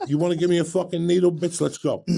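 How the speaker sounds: retelling the angry dare to the nurse, hammed-up; mock angry challenge. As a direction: fire it back at her, heated. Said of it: "I got so mad".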